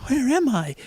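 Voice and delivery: high-pitched character voice; high little questioning voice; high-voiced Jesus. A narrator's reading. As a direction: ask it in a high, put-on voice.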